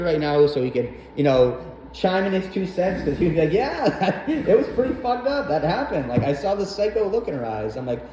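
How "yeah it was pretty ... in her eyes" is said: higher, laughing take as the stepdad; a light stepdad impression with a laugh. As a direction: chuckle it out like the amused stepdad. Imitating stepdad chiming in.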